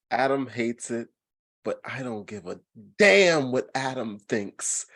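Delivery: hushed but forceful intro; whisper-yell the show open. Real, not acted. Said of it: "you're whisper yelling".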